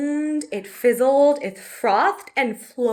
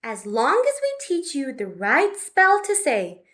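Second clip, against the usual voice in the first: put-on higher, brisk girl's voice; Betty's voice; 4 semitones higher, 3 dB louder than usual. Betty promising the dragon a spell, eager and higher. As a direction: talk quickly and eagerly, pitched up. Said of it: "said Betty".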